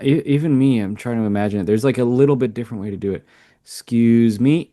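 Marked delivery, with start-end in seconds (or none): 3.7-4.7 slow polite tone. Shown as a demonstration. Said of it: "You could say it like that".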